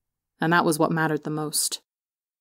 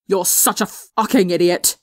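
yelled; 3 dB louder than usual. A narrator's reading. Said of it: "Tommy yelled".

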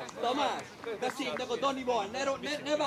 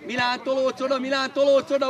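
loud, insistent coaching call; called-out instruction; 7 dB louder than usual. Real, not acted. Coach telling Milán to shift over, calling loudly. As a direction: repeat the order across the pitch.

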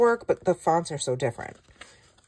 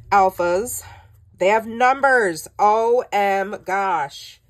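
excited; 3 semitones higher, 7 dB louder, slower than usual. Real, not acted. Thrilled at the numbered alpha sheets.

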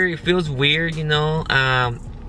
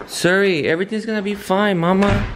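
gentle reassurance; 7 semitones higher than usual. Real, not acted. Soothing an upset child.

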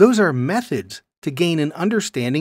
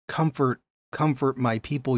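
softer, tender comfort; 4 dB quieter than usual. Shown as a demonstration. God comforting exiled people, softly tender. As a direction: speak it gently, like consoling. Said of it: "Speak tenderly to Jerusalem".

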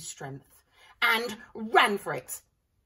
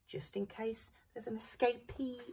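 slow, much softer ominous close; hushed warning; 4 semitones higher, 8 dB quieter, slower than usual. A narrator's reading. Narrator warning children to check their freezers. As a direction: whisper a playful warning. Spooky sign-off.

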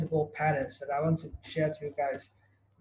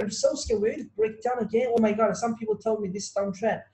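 mock fright, pitched up and fretful; scared trader; 3 semitones higher than usual. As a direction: act out a nervous buyer second-guessing. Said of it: "it's just scared".

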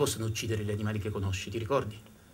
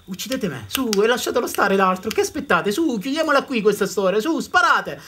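loud, higher, defiant wolf voice; pleading wolf; 8 semitones higher, 7 dB louder than usual. Acted. Wounded wolf daring the hunters to shoot, loud and pleading. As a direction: offer yourself up, daring them to shoot. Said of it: "Come a dire".

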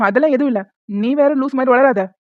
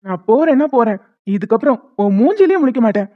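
staged angry quarrel; 3 dB louder than usual. Pretend. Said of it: "சண்டை போடுற மாதிரி".

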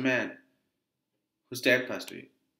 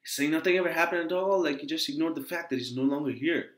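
acted indignant accusation, pitched up; raised voice; 3 semitones higher than usual. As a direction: accuse your father, a touch heated. Acted quarrel, told not to raise voice.

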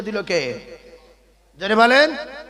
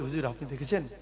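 put-on soft, hushed little boy asking; softly, like a shy boy at the battle lines; quiet child's voice; 8 semitones lower, 10 dB quieter than usual. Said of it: "আর একজন বাম দিক থেকে বলছে". (শিশুর মতো আস্তে আস্তে বলা)

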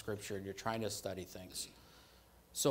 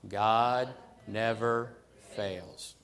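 loud declaration; 7 dB louder, much slower than usual. Shown as a demonstration. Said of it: "Say that with me".

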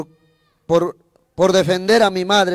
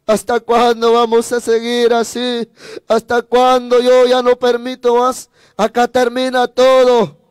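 higher, impassioned plea to a mother, no real sobbing; desperate retold protest, pitched up; retold tearful outcry; 4 semitones higher than usual. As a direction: cry out that you've had enough. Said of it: "Yo le dije llorando también".

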